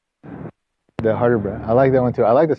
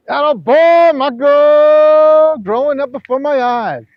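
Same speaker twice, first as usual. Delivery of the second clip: put-on much higher and louder, gushing over a grown-up child; mock proud parent; 12 semitones higher, 6 dB louder, much slower than usual. Coach teasing the student with mock parental pride, gushing falsetto. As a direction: ham up a doting parent's pride.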